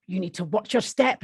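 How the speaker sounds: lightly acted Glaswegian warning; Glaswegian accent. Marion warning young Barbara, Glaswegian accent. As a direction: warn in put-on Glasgow tones. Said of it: "Marion MacDonald was the Glaswegian".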